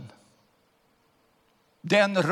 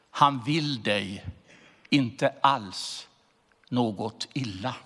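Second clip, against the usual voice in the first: poem recital; 2 semitones lower than usual. Acted. Recites Nils Ferlin poem.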